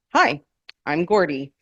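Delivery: put-on nervous teen voice breaking; voice cracking. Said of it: "his voice cracking".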